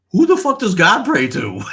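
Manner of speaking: high, loud comic disbelief; exasperated high-pitched yell; incredulous outburst. Acted. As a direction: cry it out, baffled and indignant. Acted incredulous thought in a bit.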